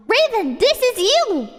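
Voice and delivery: high, excited aside to a friend; mock gushing author. A narrator's reading. Author points out her friend in story, mock gushing. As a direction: squeal it in a put-on author's voice.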